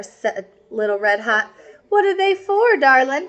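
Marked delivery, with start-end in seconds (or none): 1.9-3.3 wolf as grandma. Acted. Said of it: "Señor Lobo said".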